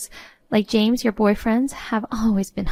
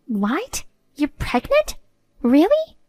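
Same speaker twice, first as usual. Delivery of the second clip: stunned disbelief; 4 semitones higher, slower than usual. Acted. Sister cries out, stunned by the pregnancy news. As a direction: gasp it out, reeling.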